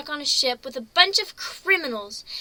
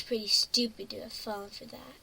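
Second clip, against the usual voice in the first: whispered embarrassed admission; 2 semitones lower, 5 dB quieter than usual. Acted. Pony admitting to the griffin she was fooled, whispering. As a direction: breathe it out, ashamed.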